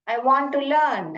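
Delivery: "I want to learn" said very slowly, word by word; slow model phrase. Shown as a demonstration. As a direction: spell it out slowly for the class. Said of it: "सीखना है बोलिए".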